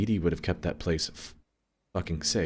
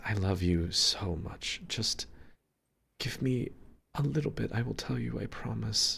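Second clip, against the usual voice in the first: tender pleading; 4 semitones higher, 6 dB quieter than usual. Acted. Character tenderly pleading with mother.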